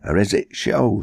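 put-on old Sam calling out from the grave; Sam's hearty greeting. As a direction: hail the living friend heartily. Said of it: "said Sam".

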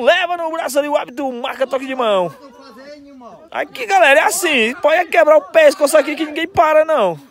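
fast, rising match commentary; excited play-by-play. Real, not acted. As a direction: call the action as it happens.

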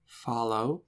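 hushed, soft single word; whispered. A narrator's reading. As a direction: read it under your breath. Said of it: "he whispered".

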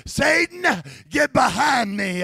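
voice of God. Retold or imitated. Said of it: "those words that I heard in the garden".

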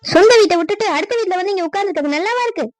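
high, loud mocking echo; angry retort. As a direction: throw his words back, heated. Wife throws his words back.

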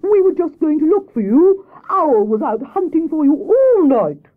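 high, loud, exasperated Hare; indignant scolding. Acted. Hare scolds Grey Rabbit on her return, indignant. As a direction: scold loudly, lifting the pitch.

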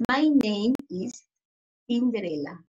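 slow, careful "My name is Cinderella"; slow model answer. Shown as a demonstration. Teacher modeling the answer for pupils, slow. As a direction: say "My name is" slowly, then drop onto Cinderella. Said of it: "my name is the pronunciation".

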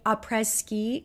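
a tentative French accent on "Après Ski", said as "ah-preh ski"; French accent attempt. Shown as a demonstration. Vlogger naming a collab collection, attempting a French accent. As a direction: try "Après Ski" in your best French accent, unsure of it. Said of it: "I don't know if I said that in a French enough accent".

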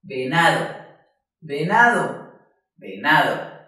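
whole word "venado", middle "na" strongest; stress on NA. Shown as a demonstration. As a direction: say "venado" in one piece, pressing on "na". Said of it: "debes pronunciar la palabra completa". ("venado" entero, con fuerza en "na")

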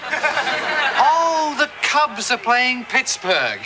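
slow, mocking parrot of his words; mocking echo. Throws the Cubs game back at Grandpa, mocking. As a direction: repeat it back with drawn-out mock awe. Mockingly echoes the other man's reason.

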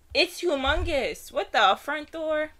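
loud, high exclamation of amazement; astonished. Real, not acted. Startled by the cat's size.

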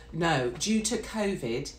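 put-on slow British clerk accent; British hotel clerk accent. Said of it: "but I've just liked that accent".

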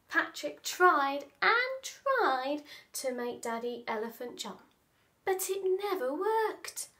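expressive picture-book narration with stretched key words; animated children's storyteller; storytelling to children. Acted. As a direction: read it playfully, leaning on the big words.

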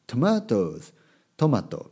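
word-list recording style, each word set apart; imitated vocabulary audiobook. Teacher mocking up a word-list audiobook, recited drill style. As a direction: mimic a bilingual vocabulary drill. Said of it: "オーディオブックみたいなのは".

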